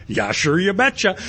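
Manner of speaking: lightly put-on Minnesotan lilt, rising at the end; Minnesota accent. Stranded driver answering locals in kind, in a mock Minnesota accent. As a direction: play up the Minnesota accent a little. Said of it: "I can speak Minnesotan".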